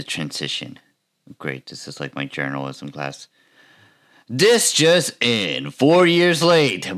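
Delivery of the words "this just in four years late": newscaster voice. Pretend. YouTuber announcing a shoplifting story, mock newscaster voice. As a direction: drag out each headline like an urgent anchor. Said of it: "my best newscaster voice".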